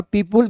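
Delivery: "पीपुल" with a "pul" second syllable; misread "people". Shown as a demonstration. Teacher warning students off a misreading, "पीपुल" with an u. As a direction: say "पीपुल" as pee-pool, with an u sound. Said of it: "और पीपुल भी नहीं पढ़ना है".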